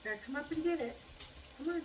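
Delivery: high, loud call to a little dog; coaxing a pet. Real, not acted. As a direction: call him up for a treat, high and lively.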